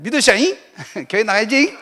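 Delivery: a light Jeolla dialect with a laugh; playful Jeolla countryman urging faith. Retold or imitated. Convert urging staff to church, lightly voiced Jeolla dialect. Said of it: "전라도 말로".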